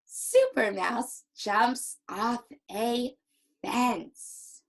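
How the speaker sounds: slow, measured happy reading; mildly excited, word by word. Shown as a demonstration. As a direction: punch each word with mild cheer. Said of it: "I have to use an excited and happy voice".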